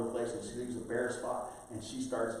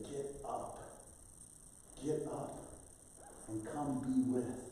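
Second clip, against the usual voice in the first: softer, slow urging whisper; whispering call; 6 dB quieter, slower than usual. Acted. Inner voice calling a sleeper to church, soft whisper. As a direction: coax them out of bed in a whisper.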